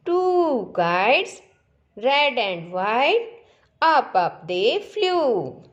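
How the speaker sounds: slow singsong recital, stretched vowels, lilting rise at line ends; poem recitation. Shown as a demonstration. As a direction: recite it slowly for children to repeat. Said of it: "चलो दोबारा से recite करते हैं". (धीमा, लयबद्ध कविता पाठ)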